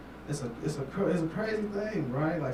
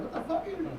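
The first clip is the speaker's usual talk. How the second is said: incredulous. Retold or imitated. Comic asking the gas station dude about workout tapes, mock disbelief. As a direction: pitch jumps up in mock shock.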